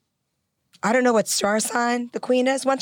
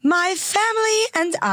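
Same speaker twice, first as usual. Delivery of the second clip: high, too vibrant imitation of the Queen; too joyful queen; 9 semitones higher than usual. Shown as a demonstration. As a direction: play an old British queen with too much joy. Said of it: "Too much joy, too much vibrance".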